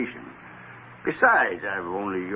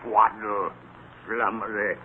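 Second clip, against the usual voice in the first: whispered scoff under the breath; muttered aside; 6 semitones lower, 6 dB quieter than usual. Acted. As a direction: scoff to yourself, barely voiced. Scrooge scoffs alone after greetings.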